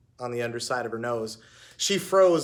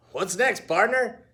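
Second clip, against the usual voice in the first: perky dog voice; 7 semitones higher than usual. A narrator's reading. Dog asks Heidi.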